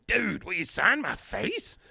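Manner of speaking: high, slow, lazy dude voice, lightly done; a singer's voice. Retold or imitated. A singer asking Dale to sign his face, slow and high. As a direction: ask it like a starstruck party dude. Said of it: "oversimplification of the way that the singer speaks".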